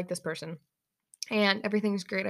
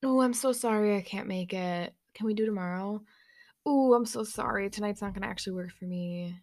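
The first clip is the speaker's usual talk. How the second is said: fake apology. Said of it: "No, you're not sorry".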